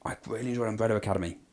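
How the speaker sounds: soft breathy whisper. Real, not acted. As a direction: whisper it under your breath. Whispered first take, then repeated.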